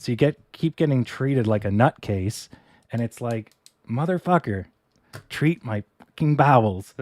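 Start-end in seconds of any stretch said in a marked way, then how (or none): 3.9-7.0 a hammed-up yell, higher and louder; mock angry outburst. Patient to doctors who will not treat bowels, mock angry shout. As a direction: vent at the doctors like you could finally snap.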